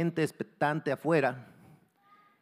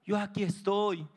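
reassuring father; 6 semitones higher than usual. Acted. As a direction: reassure your scared child from below. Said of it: "el padre le decía".

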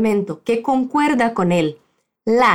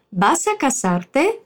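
"¿Vas a casarte?" slow, with a question rise; slow model phrase; slower than usual. Shown as a demonstration. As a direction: spell out "¿Vas a casarte?" slowly for a learner.

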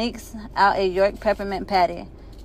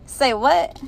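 surprised; 6 semitones higher, 4 dB louder than usual. Acted. Shocked outburst in class.

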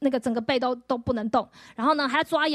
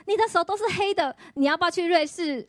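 mock alarm at the blackened arm, high and urgent; alarmed cry; 5 semitones higher than usual. Missionary's wife seeing the black arm, cries out in high alarm. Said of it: "他就大喊说".

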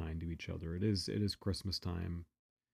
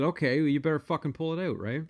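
challenging; 7 semitones higher, 4 dB louder than usual. Retold or imitated. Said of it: "I said".

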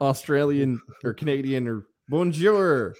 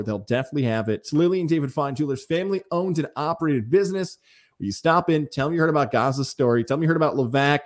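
punchy local radio ad read; live host-read commercial; sponsor ad read. Acted. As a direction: sell the jewelry store to listeners. Host reads a sponsor spot.

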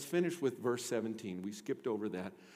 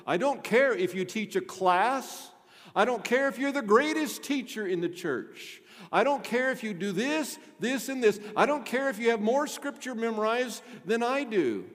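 raised, insistent preacher's voice; emphatic preaching; 9 semitones higher, 8 dB louder than usual. Real, not acted. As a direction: drive each point home to the congregation. Preaches at full force.

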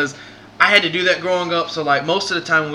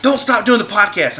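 retold call out; 8 semitones higher, 5 dB louder than usual. Bobby calling out as he leaves.

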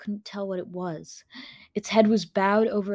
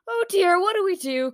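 high-pitched, fretful wail; acted panic, pitched way up; panicked cry; 10 semitones higher, 5 dB louder than usual. A narrator's reading. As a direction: cry out helplessly, much higher. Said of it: "cried Autumn".

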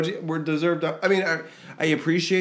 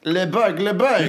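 mock French; 3 semitones higher than usual. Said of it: "French bark".

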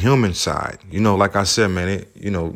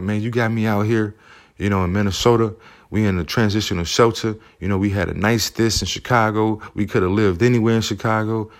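raised, mildly heated plea, higher than his own voice; reliving the frustration, pitched up but not yelling; retold anger at mother; 4 semitones higher than usual. Son blaming his mother for the move, mild angry protest. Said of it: "I had so much anger towards her".

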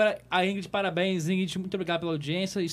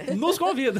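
laughing. Real, not acted. Joking about being invited.

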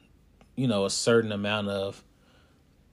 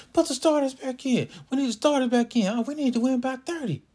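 much higher, louder mock fan yell; imitating yelling fans; 3 dB louder than usual. Fans yelling at the coach to return starters, loud mocking shout. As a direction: ham up the demanding parents in the stands. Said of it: "just yelling at me and at the team".

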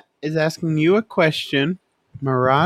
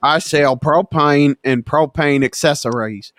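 put-on Southern accent; 4 semitones lower than usual. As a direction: say "I sell propane" like a proud Texan with a Southern accent. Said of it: "That is Southern as you get".

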